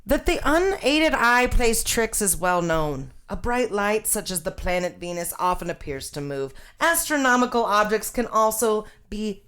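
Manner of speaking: lightly voiced old newsreel scientist; 1950s scientist voice. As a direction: read it like a fifties science film narrator. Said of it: "nineteen fifties scientist voice".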